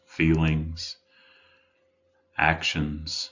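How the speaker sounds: measured meditation guide with long pauses; guided meditation. Acted. Life coach leading listeners to settle in, guided meditation. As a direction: guide them gently inward, leaving room between phrases.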